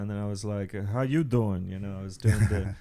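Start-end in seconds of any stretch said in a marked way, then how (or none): 0.8-1.7 put-on light Brooklyn gangster accent; a hint of a Brooklyn wiseguy. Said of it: "Why are you doing a Brooklyn accent".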